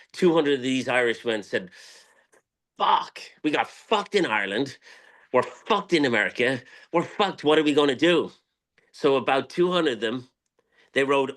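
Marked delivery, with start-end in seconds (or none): 2.8-8.3 emphatic retold cursing, pitched up; exasperated quote. Storyteller voices two hundred Irishmen cursing their luck, exasperated. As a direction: hit each curse hard, voicing fed-up men.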